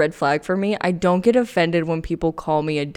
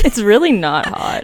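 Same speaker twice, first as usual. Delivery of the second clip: laughing; 5 dB louder than usual. Real, not acted. Teasing laugh at friend.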